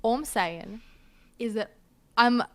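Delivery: put-on Australian-British accent that slips toward American; showy mermaid with a shifting accent; wandering accent. Mermaid defending the changeable accent to a visitor, self-important mixed accent. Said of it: "sometimes it goes a bit American".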